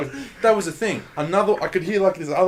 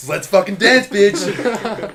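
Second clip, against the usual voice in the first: high, loud taunt; playing a bird spoiling for a fight; hammed-up dare; mock fight challenge; 7 semitones higher, 7 dB louder, much slower than usual. Acting a bird challenging another.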